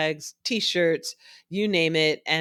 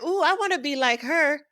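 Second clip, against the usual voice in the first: put-on high, dreamy childlike voice; awed girls; 11 semitones higher than usual. Girls admiring the YouTube vice president, high childlike gush. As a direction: gush like a little girl. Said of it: "they're like".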